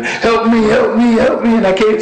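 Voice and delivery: very high mock cry for help; imitated panicked screaming. Preacher retells nearly drowning as a child, imitated panicked screaming. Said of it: "and I'm screaming".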